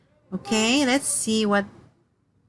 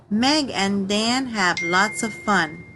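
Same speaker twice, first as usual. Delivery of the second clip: slow read; slower than usual. Shown as a demonstration. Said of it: "exclamation mark".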